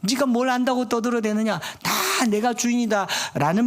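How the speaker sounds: scolding God. Acted. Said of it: "혼내는 것 같아요".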